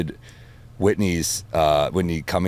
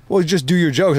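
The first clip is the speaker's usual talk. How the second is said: quoting the director; 10 semitones higher, 4 dB louder than usual. Retold or imitated. Director quoted.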